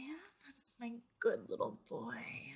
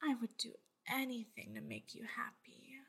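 sweet nothings; 4 dB quieter than usual. Acted. Loving reassurance to listener.

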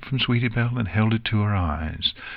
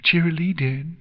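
put-on higher-pitched young pony voice; lightly voiced filly, raised in pitch; filly dialogue; 8 semitones higher than usual. A narrator's reading. Ponies talk over who called someone confused, lightly voiced filly.

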